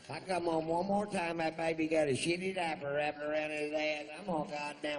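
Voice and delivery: high, loud redneck woman's voice; mock redneck woman. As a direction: play a trashy loudmouth woman at the show. Imitating the redneck chick's talk.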